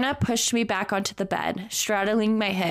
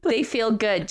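laughing; 3 semitones higher than usual. Real, not acted. Reading while laughing.

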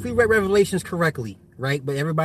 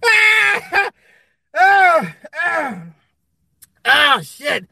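high, loud gasps of laughter; catching his breath; laughing out; 10 semitones higher, 6 dB louder, much slower than usual. Real, not acted. Winding down from a laughing fit about his joke.

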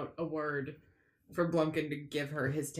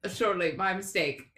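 feigned innocence; 2 semitones higher, 5 dB louder than usual. Acted.

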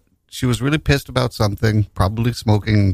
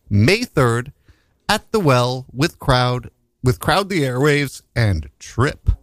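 ad read; 3 semitones higher than usual. Acted. Reads a gig ad.

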